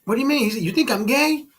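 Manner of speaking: high, indignant mock voice of a touchy customer; offended customer. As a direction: squeak out the outrage. Offended customer in retold video.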